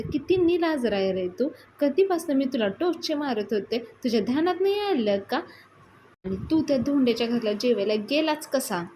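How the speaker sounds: retold nagging with a touch of anger; acted scolding. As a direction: scold him as an exasperated sister. Acted scolding of the shameless eater.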